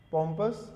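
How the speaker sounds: पोम्पस said POM-pus, short unstressed ending; correct pronunciation. Shown as a demonstration. Teacher models a new word for students, पोम्पस as POM-pus. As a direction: stress पोम्पस on the first syllable, POM-pus. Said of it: "पोम्पस है ये".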